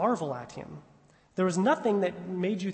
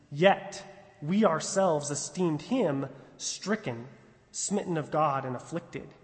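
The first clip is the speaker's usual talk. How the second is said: slow, lower solemn reading; scripture reading; 3 semitones lower, slower than usual. Acted. Preacher reading the verse to listeners, low and solemn. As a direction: read it gravely, fading at the end. Reads scripture passage aloud.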